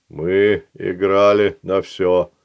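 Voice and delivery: slow, measured golem voice; a lightly voiced stone golem; slow stone monotone. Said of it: "напомнил Албыч".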